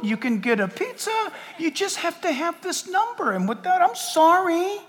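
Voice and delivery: lightly voiced slow coaxing tempter; a hint of a sly salesman, slow; understated persuasive Antichrist offering the mark; smooth Antichrist. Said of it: "he's gonna tell people".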